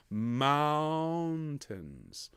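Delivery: "mountains" with a drawn-out ow in the first syllable; "mountains" as mowwn-tns; long ow vowel. Shown as a demonstration. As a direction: stretch the ow of "mountains", light second syllable. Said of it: "We want an ow on the first syllable".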